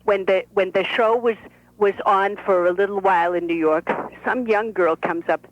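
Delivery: put-on lively old Brooklyn bubby; Bubby's voice. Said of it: "This is Annie".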